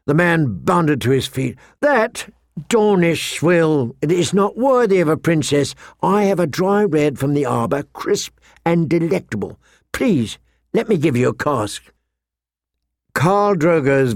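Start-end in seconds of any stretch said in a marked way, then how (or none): 1.8-11.8 a slightly high, lightly voiced salesman; mild fawning, lingering on the scornful opening; eager, fawning merchant. Merchant pressing his best cask on a princess, mildly fawning.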